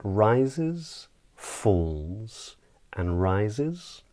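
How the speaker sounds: "rises" lifts, "falls" drops, final "rises" lifts. Shown as a demonstration. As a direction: act out the pitch on "rises", "falls", "rises". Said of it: "it basically stands for a pitch".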